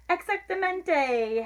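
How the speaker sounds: high, drawn-out doggy cheer; howled. A narrator's reading. Doggies agree with the kitten, mildly howled. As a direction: stretch it out high with a touch of howl. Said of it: "howled the doggies".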